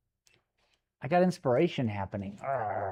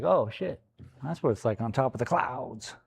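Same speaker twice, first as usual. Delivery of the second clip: a touch of wonder at being up in the clouds; awed surprise. Retold or imitated. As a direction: gasp at the view above the clouds. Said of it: "That's the sound I make".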